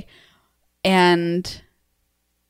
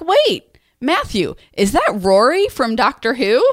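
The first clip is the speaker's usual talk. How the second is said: surprised; 4 semitones higher, slower than usual. Retold or imitated. Retold surprise at TV.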